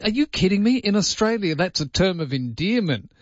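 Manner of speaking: high, laughing disbelief; brushing off the worry with a grin; amused retort. Retold or imitated. Host telling a foreigner it's affectionate, high and amused. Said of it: "I said".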